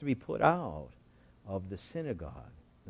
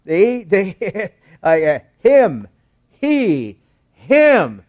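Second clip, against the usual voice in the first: flustered deflection; 8 semitones higher, 12 dB louder, much slower than usual. Acted. Mimics parents passing the blame.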